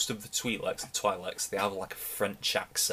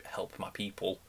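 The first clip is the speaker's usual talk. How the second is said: a lazy senator's hollow plea, whispered; mocking the greedy senator's empty words in a whisper; 6 dB quieter than usual. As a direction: whisper "Help my people." as a limp, insincere plea. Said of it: "not really doing anything besides saying".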